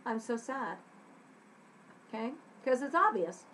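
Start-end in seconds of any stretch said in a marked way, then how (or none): 0.0-0.8 understated sadness; soft touch of sorrow; sad. Shown as a demonstration. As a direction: say it a little forlornly.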